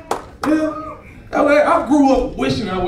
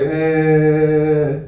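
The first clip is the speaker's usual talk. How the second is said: slow, halting fake-Spanish attempt; drawn-out questioning pseudo-Spanish; makeshift mock Spanish; much slower than usual. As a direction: fumble through bad Spanish, stretching the words. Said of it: "I did the best Spanish I could do".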